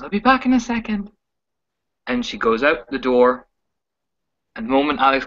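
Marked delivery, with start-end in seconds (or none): 0.0-1.1 false cheer. Acted. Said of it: "As she kinda smiles".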